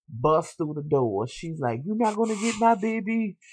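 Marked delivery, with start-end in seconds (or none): 1.8-3.4 imitating her delivery. Retelling the woman refusing to give up the baby, imitating her. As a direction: mimic her line, pitched well up. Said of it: "that's how she was saying it".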